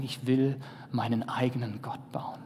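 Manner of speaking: hushed whisper, voice changed; a secret, covetous whisper; whispered wish. Acted. Voicing the people's stubborn wish.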